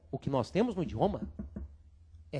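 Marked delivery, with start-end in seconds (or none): none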